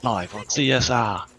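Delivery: booming fight announcer call. Pretend. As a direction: announce it like a hype host. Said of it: "What was that voice?".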